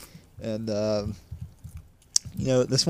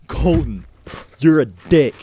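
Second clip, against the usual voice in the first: loud mock yell, higher on the name; retold scream; 3 semitones higher, 7 dB louder than usual. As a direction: yell it in his face, retelling a prank. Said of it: "right in his face, he screams".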